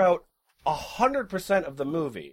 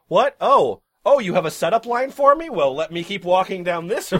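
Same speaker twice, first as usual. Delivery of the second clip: put-on dismissive girl voice; 5 dB louder than usual. Voicing Molly dismissing Judd.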